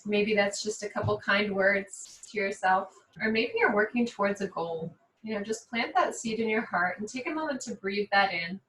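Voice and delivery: calm, even yoga-teacher voice, long pauses; guided meditation. Real, not acted. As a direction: guide them unhurriedly through breathing. Leads seated breathing and intention setting.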